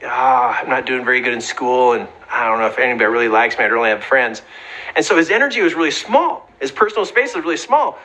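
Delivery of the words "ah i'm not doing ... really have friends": put-on mopey kid. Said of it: "his son is like".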